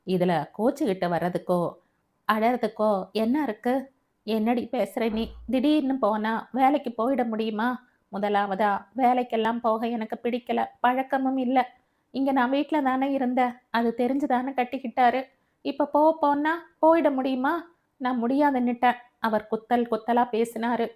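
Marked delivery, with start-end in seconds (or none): 0.1-3.9 a hint of a chiding father; father's mild reproach. Father questions daughter's sulking. 4.3-19.0 a touch of hurt outrage; indignant protest. Acted. Sathya protests, complaining heatedly.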